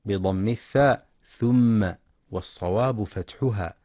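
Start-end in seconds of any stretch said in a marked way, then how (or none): 1.3-1.9 ثم said thumma with u, marked wrong; wrong damma. Shown as a demonstration. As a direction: show the mistake ثم with a u. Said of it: "يخطئ من يقرأ ثم بضم الثاء".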